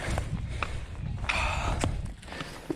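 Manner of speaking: long winded breath out; heavy exhale. Real, not acted. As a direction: huff out the breath. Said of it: "I'm out of breath".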